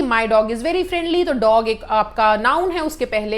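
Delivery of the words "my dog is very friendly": very slow, clear example sentence; slow dictation. Shown as a demonstration. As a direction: spell it out word by word for the class. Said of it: "वैसे ही".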